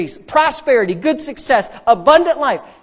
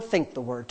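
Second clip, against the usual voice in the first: "think the word" dropped low and softer; inward answer; 9 semitones lower, 10 dB quieter than usual. Shown as a demonstration. Preacher drilling day-and-night habit, "think the word" low and inward. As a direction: turn "think the word" inward, lower and quieter. Chanted contrast of talk, think.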